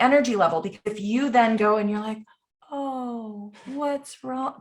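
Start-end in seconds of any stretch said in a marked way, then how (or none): 2.7-4.5 higher, much softer, sugary concern; syrupy fake sympathy. Brushing off an upset person, fake soft concern. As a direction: coo it with put-on pity. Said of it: "don't give me that".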